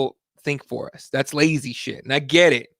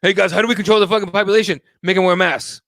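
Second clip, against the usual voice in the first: quick, raised mock pitch of a scheme; mocking plotters; 4 semitones higher, 4 dB louder than usual. Host ridiculing a supposed plot to control people, mocking. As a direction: toss it out as a silly fake plan.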